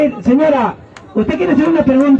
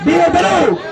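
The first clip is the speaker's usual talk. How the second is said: raised, higher shout of viva Perú; rally cry; 5 semitones higher than usual. Real, not acted. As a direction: call out the chant to the crowd. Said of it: "A ver, hermano".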